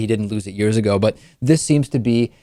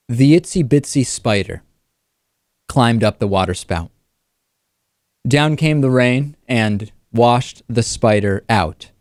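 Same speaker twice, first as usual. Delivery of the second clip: mock dramatic reading; 2 semitones lower than usual. Host mocks Glenn Beck reading a nursery rhyme, mock-solemn recitation. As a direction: read the nursery rhyme like grave poetry. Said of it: "Imagine if I did a, a reading ... In the same way".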